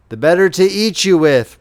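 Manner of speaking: wolf springing at Little Red Riding Hood, roaring. Acted. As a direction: let the wolf roar it out, triumphant. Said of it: "roared the wolf".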